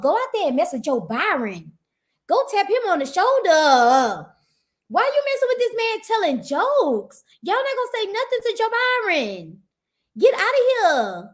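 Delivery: rising, exasperated scolding; annoyed scolding. Retold or imitated. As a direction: tell off the troublemakers. Scolding the hecklers.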